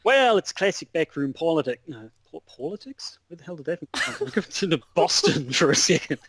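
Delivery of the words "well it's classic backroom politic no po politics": broad, hammed-up Aussie; exaggerated Australian correspondent; thick Australian accent. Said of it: "in your thickest Australian accent".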